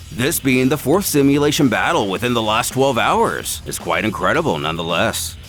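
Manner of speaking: usual speaking voice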